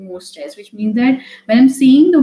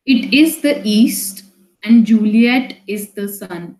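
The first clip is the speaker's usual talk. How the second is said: slow, even reading of a Shakespeare line; slow poem reading; slower than usual. Shown as a demonstration. Teacher reads the Romeo and Juliet line slowly to students. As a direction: read the verse aloud slowly to the class. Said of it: "I read the first line and now the second line".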